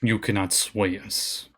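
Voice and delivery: lightly voiced wolf, slow and a bit low; a hint of a menacing wolf leader; snarling alpha wolf. The alpha wolf warning the player, slow, lightly menacing. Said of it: "looks at you and snarls, and he says".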